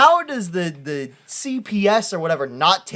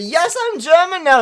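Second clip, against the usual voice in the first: mock villain; 10 semitones higher, 6 dB louder than usual. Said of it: "He's like".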